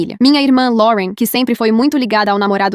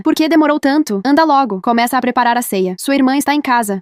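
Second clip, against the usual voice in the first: impatient scolding, raised voice; irritated mother; 2 semitones higher than usual. Acted. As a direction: snap orders at the daughter.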